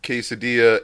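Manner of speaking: quesadilla with hard L, kay-sa-DILL-a; deliberate mispronunciation. Shown as a demonstration. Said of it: "get shit for calling a quesadilla".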